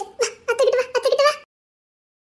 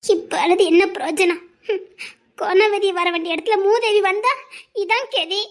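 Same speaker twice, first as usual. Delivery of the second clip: mock crying; 5 semitones lower than usual. Mother lamenting son's marriage.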